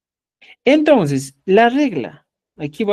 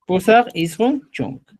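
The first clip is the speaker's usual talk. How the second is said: careful correction; slower than usual. Shown as a demonstration. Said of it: "Esto estamos mal".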